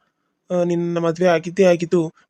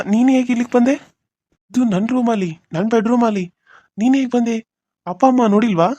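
higher, louder startled asking; startled questions; 5 semitones higher, 3 dB louder than usual. Acted. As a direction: caught off guard, demand how she got in. Shocked to see her in bedroom. (ಗಾಬರಿಯಿಂದ ಏರಿದ ಧ್ವನಿ)

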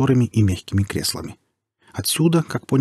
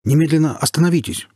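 uncertain command; 7 semitones higher, 3 dB louder than usual. Acted. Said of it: "неуверенно бросил ему вслед капитан".

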